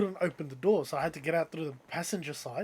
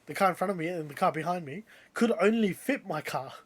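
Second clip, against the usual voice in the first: raised, louder voice, stressing each point; retold indignant arguing; 4 semitones higher, 6 dB louder than usual. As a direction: argue back in disbelief, high and forceful. Retells his indignant side of argument.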